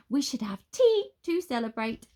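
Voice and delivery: high, loud, theatrical wizard voice; a giddy wizard savouring his freedom; excited wizard. A narrator's reading. Wizard to Nine, exultant and high.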